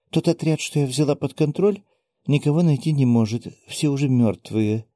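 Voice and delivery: put-on old granny voice. Saimin, the granny, continuing.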